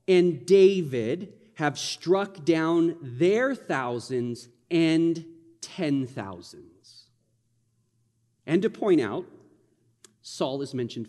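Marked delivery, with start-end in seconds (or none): 0.0-7.0 slow, drawn-out reading of the line. Shown as a demonstration. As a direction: read it slowly, weighing each word. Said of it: "Do you hear the celebration in that?".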